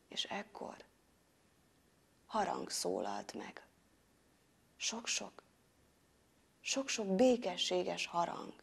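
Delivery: very soft, near-whispered narration; hushed wonder. A narrator's reading. Hero hearing many peaceful bells, hushed. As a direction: let the battle fall away into peace.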